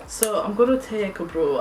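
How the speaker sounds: jokey Northern English twang on "brew"; Northern English accent. Retold or imitated. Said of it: "talking like I'm from Northern".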